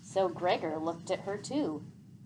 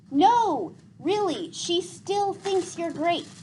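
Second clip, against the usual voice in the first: promising; 10 semitones higher, 6 dB louder, slower than usual. A narrator's reading. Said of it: "promised Gregor".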